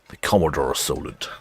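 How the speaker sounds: "The Commodore Solent" in a clumsy mock Australian accent, vowels stretched and flattened; bad Australian accent. Shown as a demonstration. Naming an imagined Australian car in a bad Australian accent. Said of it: "Bad accent, sorry".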